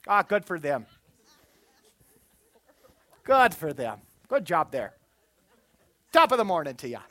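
hammed-up Irish well-wisher; Irish accent. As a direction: congratulate them in a put-on Irish accent. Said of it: "I don't know why I went Irish".

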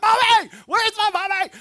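put-on high, loud little-kid cry for mommy; scared child. Preacher mimicking himself as a scared child. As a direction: wail for mommy like a frightened child. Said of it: "I'm like".

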